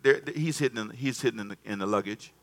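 softly voiced Lord pointing out the hiding place; quiet aside. Preacher voicing God telling the people, hushed. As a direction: drop to a hushed reveal. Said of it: "And the Lord answered".

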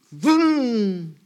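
high, mouth-made engine roar; engine vroom. Pretend. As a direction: play a jet engine with your mouth. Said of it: "and you says".

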